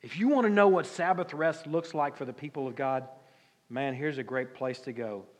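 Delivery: ordinary delivery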